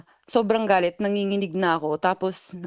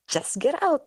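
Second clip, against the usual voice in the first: firm order; 8 semitones higher, slower than usual. Retold or imitated. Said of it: "Sabi ko".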